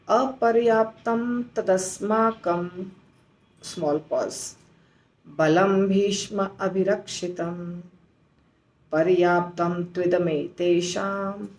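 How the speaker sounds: chant-like shloka reading, pausing at each half; shloka recitation. Shown as a demonstration. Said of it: "ऐसे हमको उच्चारण करना है". (श्लोक का धीमा पाठ, छोटे विराम के साथ)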